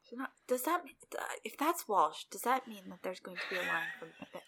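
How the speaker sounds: hushed, breathy aside; whispering. Real, not acted. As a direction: drop to a whisper for the joke. Joking aside about the monkey.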